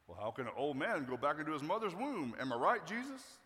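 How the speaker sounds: awkward jokey question, lifting at the end; joking sarcasm. Acted. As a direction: play it as a lame joke seeking agreement. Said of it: "if he's being sarcastic".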